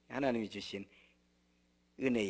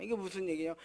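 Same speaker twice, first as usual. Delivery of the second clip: normal talking voice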